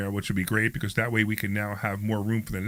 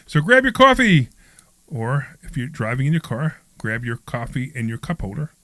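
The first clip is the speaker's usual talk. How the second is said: upbeat radio host introduction; show intro read; 3 semitones higher than usual. Acted. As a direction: announce the show with polished energy.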